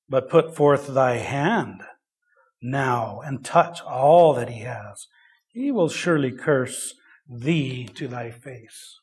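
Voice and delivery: measured, deliberate Bible reading; scripture reading. Acted. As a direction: read the verse solemnly, slowing toward the end. Reads scripture aloud.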